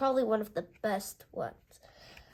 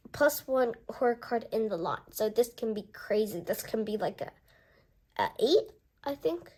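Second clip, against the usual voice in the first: ordinary delivery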